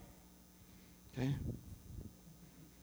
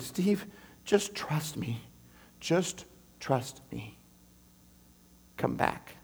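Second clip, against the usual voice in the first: slow, soft, fading to a whisper; God whispering, very slow and soft; whispered plea; 3 semitones lower, 7 dB quieter, much slower than usual. Retold or imitated. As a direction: coax him gently back.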